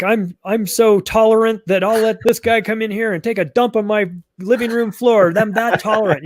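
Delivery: a self-satisfied preacher of tolerance, mildly parodied; mock smug virtue signaler. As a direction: ham up someone bragging about their tolerance. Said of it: "I, like".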